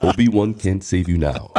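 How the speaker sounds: deep menacing put-on voice. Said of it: "We can go Star Wars too".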